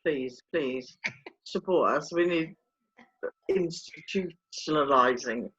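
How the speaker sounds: low, soft pretend plea; mock begging. Co-host begging listeners for support, mock pitiful. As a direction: plead feebly, hamming it slightly.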